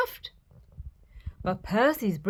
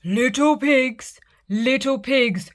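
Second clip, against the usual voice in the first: slow, louder wolf demand; roaring wolf; 3 semitones higher, 4 dB louder than usual. Acted. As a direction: roar it slowly at the door. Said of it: "roared the wolf".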